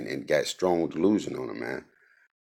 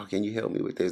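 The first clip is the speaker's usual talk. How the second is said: mock sweet, slightly higher asking for help; lightened-up voice; 5 semitones higher, faster than usual. Mocking a woman asking for help with heavy things, lightly lightened voice. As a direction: lighten the voice to ask a favor. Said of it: "lighten your voice up and talk".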